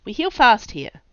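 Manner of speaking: high, loud yelp, forcing it down; pained yelp turned into protest. A narrator's reading. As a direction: snap out in pain, covering it. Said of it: "the words slurred into a yelp".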